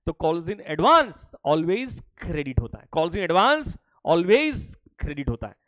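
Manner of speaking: slow, with weight on always; slow and firm, always क्रेडिट stressed; stressed rule. Shown as a demonstration. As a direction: drive the rule home, slowly. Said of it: "always ध्यान रखना".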